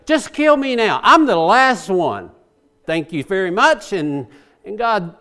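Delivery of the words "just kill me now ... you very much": Elijah's weary plea, pushed out loud on kill; a prophet who has had enough, louder; Elijah begging to die. Retold or imitated. Prophet to God, fed up, asks to die, loud. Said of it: "he just simply told the Lord".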